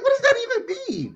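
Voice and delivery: high, laughing disbelief; baffled. Retold or imitated. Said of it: "I was like".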